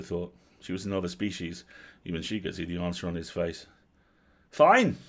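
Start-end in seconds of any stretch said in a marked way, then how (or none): 4.5-5.0 high, loud yelled word; angry yell. A narrator's reading. Girl turning on her brother, yelling. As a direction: yell it back at him, pitch leaping. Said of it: "yelled the girl".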